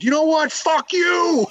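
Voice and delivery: high-pitched mock outburst; imitated yell breaking into laughter; retold yell. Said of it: "pointed at him on his kayak and yelled".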